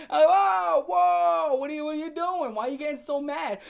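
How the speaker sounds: playing innocent at her panic; hammed-up alarmed whoa; mock surprise. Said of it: "I'm like".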